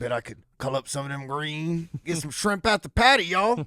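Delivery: high, loud mock Southern accent; hammed-up code-switch voice; african american accent. Mocking code-switching Southern parents.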